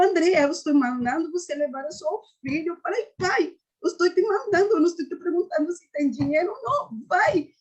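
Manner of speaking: imitating God's firm order, pitch lifted; strong commanding voice. God ordering a mother to send her son away, strong voice. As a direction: give it as a forceful command, retold. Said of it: "sabe aquela voz forte?".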